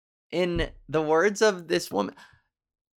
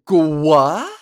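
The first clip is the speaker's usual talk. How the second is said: shocked reply; 9 dB louder than usual. Retold or imitated. Acts out own shocked reply.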